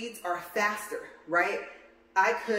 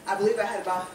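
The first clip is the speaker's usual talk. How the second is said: breathless from walking the treadmill; talking while short of breath. Real, not acted. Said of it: "I'm just out of breath this morning".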